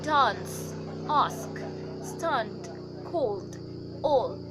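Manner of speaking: "dance, ask" with a long "ah" vowel; broad British A. Shown as a demonstration. Teacher listing examples for the letter A, broad British vowels. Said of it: "For the letter A".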